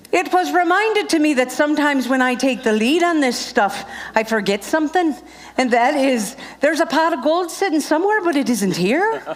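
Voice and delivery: playful put-on Irish lilt; mock Irish storyteller's lilt; homemade Irish accent. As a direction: tease the crowd in an amateur Irish accent. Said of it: "what my husband calls this accent".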